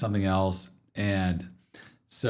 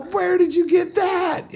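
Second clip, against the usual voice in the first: taken aback; 5 dB louder, slower than usual. Retold or imitated. Dad questioning son's shocking words.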